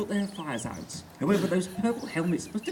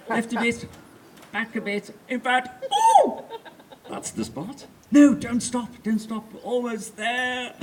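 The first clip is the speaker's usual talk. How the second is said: a hint of a bossy empress giving orders; lightly voiced domineering queen; 2 semitones higher than usual. The Empress directing Spode, a hint of bossy queen. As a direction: coax and command with mock royal airs.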